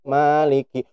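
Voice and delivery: "Maliki" said limp and dejected; depressed reading. Shown as a demonstration. Teacher mocks a frustrated student's reading. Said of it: "depresi, kemudian gini".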